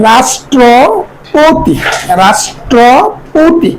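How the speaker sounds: রাষ্ট্রপতি very slow, "rash-tro-po-ti"; syllable-by-syllable pronunciation. Shown as a demonstration. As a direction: stretch রাষ্ট্রপতি with sh and a long "po". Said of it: "উচ্চারণ হয় তালব্য স". (রাষ্ট্রপতি ভেঙে ভেঙে, টেনে উচ্চারণ)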